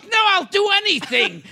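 put-on frantic pleading young woman; pleading model. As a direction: beg him not to call. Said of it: "She goes".

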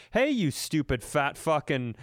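a lightly voiced heckler, the last words drawn out slow; hammed-up troll commenter dragging out the last words; mock online heckler. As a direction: jeer at Larry bowling, then fake praise slowly. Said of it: "we just get on there like".

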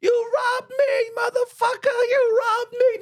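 high, slow, shrieking accusation; screaming accusation. Retold or imitated. Woman screaming at the cop who robbed her. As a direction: scream it like she's been robbed. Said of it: "she starts screaming out".

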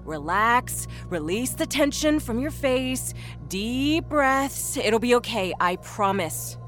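slow, soothing coaching; calm nurse's encouragement, drawn out; reassuring. A narrator's reading. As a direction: guide a frightened patient to relax. Nurse calms woman in labor.

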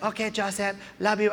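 lightly voiced, soft grandmother; Lola Tinay. Grandmother saying goodnight to her grandson, soft voice. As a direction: answer softly as a tired grandmother. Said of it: "She's like".

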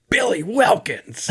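high, drawn-out call of the name; imitated movie line. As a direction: call it out slowly, way up in pitch. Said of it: "I cannot deal with that line delivery".

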